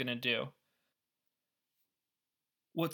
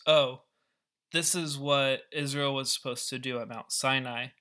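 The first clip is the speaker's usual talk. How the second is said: dawning realization. Retold or imitated. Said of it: "you're supposed to realize".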